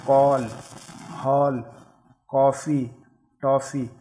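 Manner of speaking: "कॉल" with lips rounded on the vowel; each word with a round-mouthed ऑ; rounded ऑ vowel demo. Shown as a demonstration. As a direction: model "कॉफ़ी" with an open rounded o. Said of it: "मुंह जो है गोल आकार ले लेता है".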